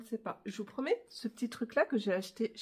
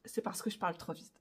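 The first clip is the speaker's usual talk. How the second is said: quick, softer aside; talking too fast; 3 semitones lower, 6 dB quieter, faster than usual. Real, not acted. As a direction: rattle it off quickly, dropping the volume.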